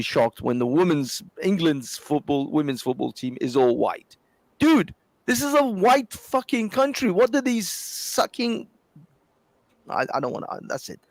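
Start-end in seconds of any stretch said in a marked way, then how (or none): 4.6-8.7 higher, exasperated outburst; high-pitched exasperated rant. Real, not acted. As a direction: blurt it out, fed up. Heated argument over football team.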